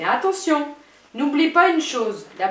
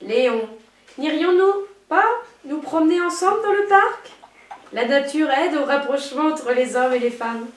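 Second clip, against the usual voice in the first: femme fatale. Shown as a demonstration. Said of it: "Prends une voix langoureuse".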